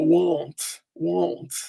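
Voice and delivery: "won't" through the nose; nasal ou. Shown as a demonstration. Teacher showing nose placement, "won't" with a nasalised ou. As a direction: say "won't" as if talking with a nasal twang. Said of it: "se você fosse falar como fanho".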